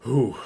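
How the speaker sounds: lightly acted relieved "whew"; sigh of relief. A narrator's reading. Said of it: "takes a sigh of relief".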